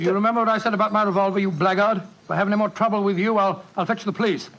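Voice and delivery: fast, sharp threat with a revolver; threatening the keeper. Acted. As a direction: rattle off the warning to scare him off. Watson threatens the proprietor.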